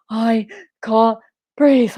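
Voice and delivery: slow, halting Stevie wheeze. Retold or imitated. Mock Stevie voice answering mum and brother. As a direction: drag it out like Stevie. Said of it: "sounded like him".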